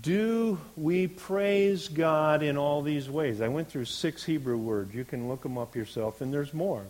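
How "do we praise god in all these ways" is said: loud, slow rhetorical question; emphatic challenge. Real, not acted. Preacher challenging the congregation about praise, emphatic and slow. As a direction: lean hard on DO and PRAISE, drawing them out.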